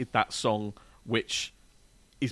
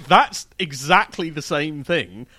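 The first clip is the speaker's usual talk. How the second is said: slow, louder, hammed-up post-grunge croon; bad rock singer impression; 7 dB louder, slower than usual. Host doing a bad rock singer impression for the hosts. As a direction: ham up a rock singer's mannered croon. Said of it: "me doing a bad rock singer impression".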